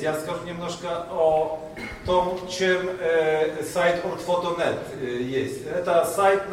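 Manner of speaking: Russian with a Polish accent; non-native Polish-accented Russian. Real, not acted. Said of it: "извините за мой русский язык".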